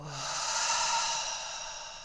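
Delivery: long, airy sigh out; empty the lungs in one long breath; demonstrated exhale. Shown as a demonstration. Teacher tells students to let it all go, long sigh.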